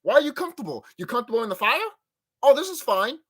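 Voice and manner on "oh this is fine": mock calm. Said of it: "that meme with the dog".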